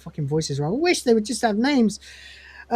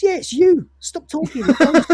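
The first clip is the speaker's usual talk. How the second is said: mocking Lister; 9 semitones higher, 5 dB louder than usual. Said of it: "He says".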